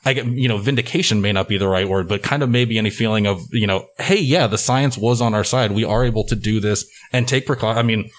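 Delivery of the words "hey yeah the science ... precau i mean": muffled behind a face mask; talking through a mask. Real, not acted. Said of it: "I'm wearing a mask right now".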